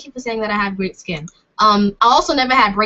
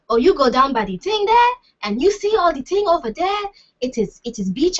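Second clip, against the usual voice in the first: badly faked Afrocentric accent, higher and lilting; mock traditional accent; 7 semitones higher than usual. Shown as a demonstration. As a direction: put on a bad, swinging Afrocentric accent. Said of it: "I don't wanna do the, the, traditional".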